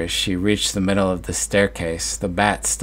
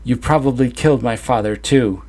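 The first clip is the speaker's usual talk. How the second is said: higher, louder command; hollered; 5 semitones higher, 4 dB louder than usual. Acted. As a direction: holler it at her. Son keeps hollering at mother.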